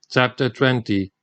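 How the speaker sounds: ordinary delivery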